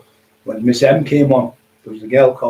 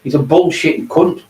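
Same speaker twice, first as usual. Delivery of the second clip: retold outburst; 7 semitones higher than usual. Telling a scared friend the rival is a crank, raised scoff. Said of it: "I said".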